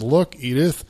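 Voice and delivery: mock-surprised sitcom husband addressing his wife; Archie Bunker. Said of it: "Archie Bunker says to Edith".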